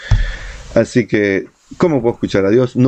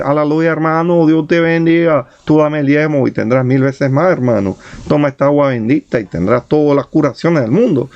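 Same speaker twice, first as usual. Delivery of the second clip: bad Caribbean accent; 6 semitones higher than usual. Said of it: "mi mal acento caribeño". (acento caribeño exagerado de predicador)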